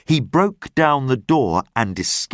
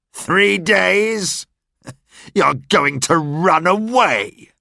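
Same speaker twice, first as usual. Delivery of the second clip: higher, scornful disbelief; mocking; 8 semitones higher, slower than usual. Javert mocks the prisoner's plea, higher and scornful. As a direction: sneer at the request. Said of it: "Javert laughed loudly".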